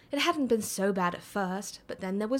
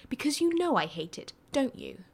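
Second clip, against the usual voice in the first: panting; 6 semitones higher than usual. Acted. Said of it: "Merlin panted".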